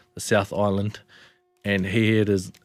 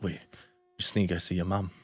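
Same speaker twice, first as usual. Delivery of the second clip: softer, restrained retold plea; holding it together; 3 semitones lower, 7 dB quieter, faster than usual. Telling partner to see her mum, holding it together. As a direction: keep it low and contained. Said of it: "trying to hold it together".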